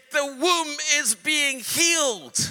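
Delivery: demon voice. Retold or imitated. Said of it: "And it said".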